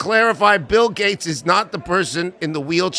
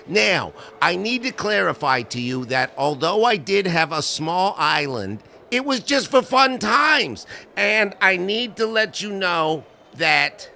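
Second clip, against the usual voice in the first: Epstein impression. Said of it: "I take you live now to Jeffrey Epsteining".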